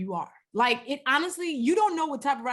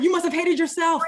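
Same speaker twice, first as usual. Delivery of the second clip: loud sympathy; 5 semitones higher, 5 dB louder than usual. Real, not acted. Sympathetic outburst about run-on sentences.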